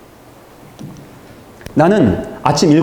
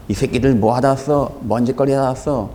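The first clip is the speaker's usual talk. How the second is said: a hint of a rough drunk man jeering; lightly voiced heckling drunk; mildly imitated drunk taunt; drunk thug. Drunk man harassing young people.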